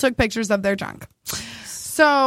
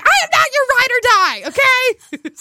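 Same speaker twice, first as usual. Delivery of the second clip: high sassy retort; sassy girlfriend; 13 semitones higher, 4 dB louder than usual. Retold or imitated. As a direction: snap back with attitude. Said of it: "She's like".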